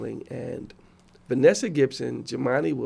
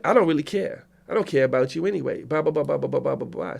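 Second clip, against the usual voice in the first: dismissive doctor; 2 semitones higher than usual. Retold or imitated. Doctor telling the patient she doesn't care, lightly mocked dismissal. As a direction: imitate someone who couldn't care less, trailing into blahs. Retells doctor brushing him off.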